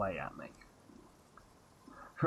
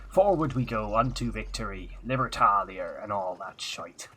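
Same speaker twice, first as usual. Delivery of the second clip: pirate slogan voice. Pretend. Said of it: "says Nate".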